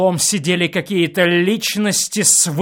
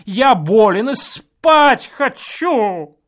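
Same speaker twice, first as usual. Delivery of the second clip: loud slow plea, higher; pleading shout; 8 semitones higher, 7 dB louder, slower than usual. A narrator's reading. Guest pleads through the wall to be let sleep. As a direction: beg for sleep, loudly. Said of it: "крикнул я умоляющим голосом".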